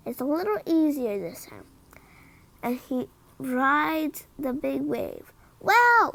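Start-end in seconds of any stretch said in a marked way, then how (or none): 5.6-6.1 amazed wow. Acted. Brother amazed at Pete surfing.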